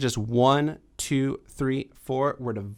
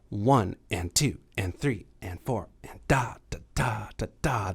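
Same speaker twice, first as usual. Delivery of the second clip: swung count; 3 semitones lower, 4 dB quieter than usual. Shown as a demonstration. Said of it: "the feel for this song".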